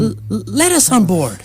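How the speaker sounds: stammered start; stumbling words. Acted. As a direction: trip over the first word. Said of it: "They let us on board".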